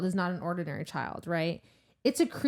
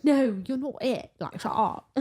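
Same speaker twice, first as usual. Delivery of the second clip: dismissive quote; 4 semitones higher than usual. Retold or imitated. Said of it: "She's like".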